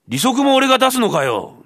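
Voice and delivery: high, loud incredulous cry; can't believe he's paying that too; exasperated outburst. Acted. Thief is exasperated at the demand. (呆れて声を裏返す)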